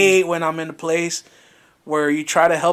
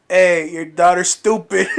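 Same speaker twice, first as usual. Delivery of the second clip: laughing jab; slower than usual. Retold or imitated. Mocking remark, laughing, slow.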